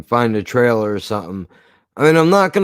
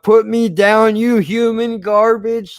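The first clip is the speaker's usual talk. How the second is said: high, raised-voice mock scream; imitated scream; 8 semitones higher, 4 dB louder, slower than usual. Retelling a favorite crowd-surfing moment from the show, mock screaming. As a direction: yell it out high, imitating a panicked cartoon. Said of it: "he was just screaming out".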